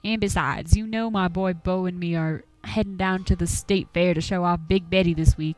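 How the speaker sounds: lightly voiced old country hunter, grumbling; a hint of a gruff Appalachian old-timer warning folks off. Game master voicing Duke, shooing the players from his woods, gruffly.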